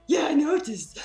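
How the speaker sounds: high, loud and delighted; gleeful mock reply, near laughing; imitated happy vendor. Vendor happy about her accent, imitated delight. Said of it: "he was so happy about it".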